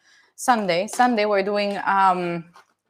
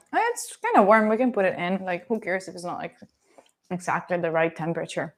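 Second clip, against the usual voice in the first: talking while chewing corn; mouth full; 3 semitones lower than usual. Real, not acted. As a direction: speak through a mouthful. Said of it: "Don't talk with my mouth full?".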